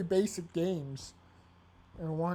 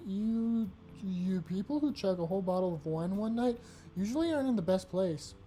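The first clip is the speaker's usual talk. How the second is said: usual speaking voice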